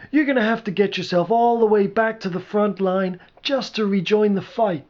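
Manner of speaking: a hint of an exasperated pal; objecting friend.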